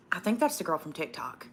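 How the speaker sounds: mock whisper. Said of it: "That's probably exactly how they said it".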